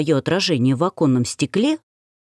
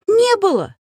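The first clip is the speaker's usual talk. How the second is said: very high shrill squeal, louder; hysterical squeal; 4 dB louder than usual. Acted. The heroine squeals a hysterical denial at the suitor. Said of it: "истерично взвизгнула я".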